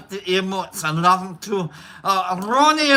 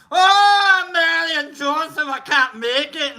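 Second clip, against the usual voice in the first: mock Irish lament; 5 semitones higher than usual. Mocking Mushmouth's excuse.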